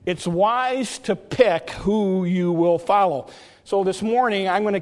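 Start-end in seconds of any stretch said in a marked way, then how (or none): 0.1-3.3 slow, deliberate repeat of a key line; measured preacher's emphasis; emphatic repetition. Real, not acted. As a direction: drive the lesson home slowly.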